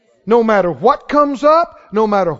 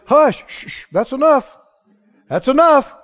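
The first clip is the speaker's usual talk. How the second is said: firm shushing to cut talk off; firm hushing. Acted. Believer silencing somebody's worried talk, firmly hushing. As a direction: shush them and shut it down.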